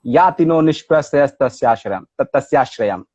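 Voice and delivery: measured shloka in even metre; Sanskrit recitation. Shown as a demonstration. Scholar repeats the verse translated from Rumi, measured Sanskrit recitation. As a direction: recite it as verse, settling at the end. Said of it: "به سانسکریت من خوندم".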